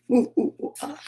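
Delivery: mock vampire laugh; short spooky oohs ending in ah; Count Dracula laugh. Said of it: "sound like Count Dracula".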